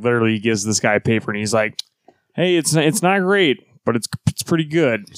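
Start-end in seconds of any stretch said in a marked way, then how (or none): 2.3-5.2 hesitant editor's verdict. Retold or imitated. Retelling editor politely judging a weak paper.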